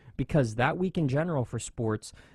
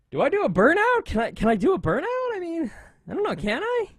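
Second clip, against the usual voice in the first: much higher, fast and excited; excited high squeaky quote; 4 dB louder, faster than usual. Retold or imitated. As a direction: act out an eager rookie asking permission. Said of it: "and he goes".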